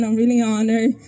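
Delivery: slightly shaky, emotional voice; nervous tremble in the voice. Real, not acted. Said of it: "That's why I sound so shaky".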